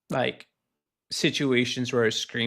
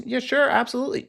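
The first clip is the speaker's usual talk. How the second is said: glib yes-man; 11 semitones higher, faster than usual. Retold or imitated. Coworker's empty promise.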